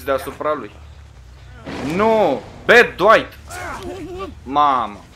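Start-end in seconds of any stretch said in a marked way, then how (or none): 1.9-5.0 loud, high cries of protest at Dwight; alarmed shouting. Real, not acted. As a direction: cry out in real alarm, then drop in pitch. Startled outburst at in-game killer. (strigăt alarmat, tare)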